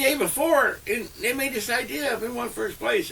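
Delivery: high, laughing mock outrage; high-pitched laughing complaint about the rival team; laughing indignation. Real, not acted. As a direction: squeal out the injustice half laughing. Mock outrage at losing contest.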